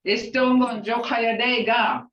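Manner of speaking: Jokayadega sounded out carefully; Chickasaw greeting. Shown as a demonstration. Teacher modelling "Jokayadega" for one person. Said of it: "One person".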